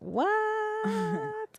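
high, startled "what?"; surprised. Real, not acted. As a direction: caught off guard, voice jumps up. Only six viewers, then likes.

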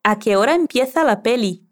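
light Castilian accent, "empieza" with a th sound; Spain Spanish accent. Shown as a demonstration. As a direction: repeat it the Madrid way, lightly. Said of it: "Intentemos con el acento de Celia".

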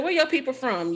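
country Arkansas twang; Arkansas accent. Retold or imitated. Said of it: "still got my Arkansas accent".

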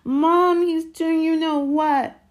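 high, loud, drawn-out wail; slow panicked tattling howl. A narrator's reading. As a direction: yell to mother to tell on him. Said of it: "howled Dudley".

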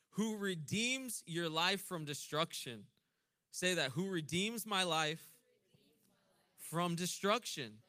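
slow, loud, drawn-out proclamation; preaching scripture. Acted. Preacher proclaiming healing to congregation, drawn out. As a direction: stretch every word for the room.

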